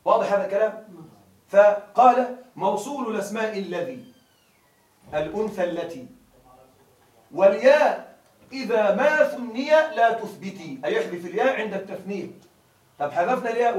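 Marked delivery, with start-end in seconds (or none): 2.6-10.8 verse recitation. Acted. Teacher recites the verse to his students, measured and chanted.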